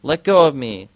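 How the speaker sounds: high, loud cry to be let go; girl being hit cries out, high and loud; shriek of pain. A narrator's reading. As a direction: scream at her to let go. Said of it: "Yara shrieks with pain".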